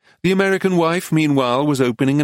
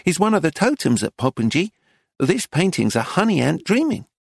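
higher-pitched sales patter; explaining shopkeeper; 6 semitones higher than usual. Acted. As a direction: present the picture to tourists. Dealer explains to tourists.

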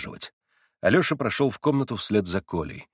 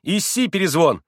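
sic him; 8 semitones higher, 6 dB louder than usual. A narrator's reading. Boy sets dog on doctor.

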